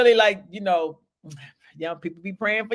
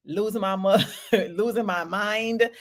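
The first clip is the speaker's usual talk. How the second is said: words broken by real laughter; laughing through words. Real, not acted. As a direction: laugh while you say it. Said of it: "laughing while telling".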